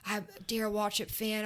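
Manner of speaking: whispered, excited secret; whispered fan. Retold or imitated. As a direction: lean in and whisper the confession. Fan rep gushing backstage.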